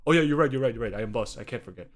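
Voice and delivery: hammed-up scheming boss; mock boss. Egyptian boss telling clerk to charge the American triple, mock. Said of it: "It's like".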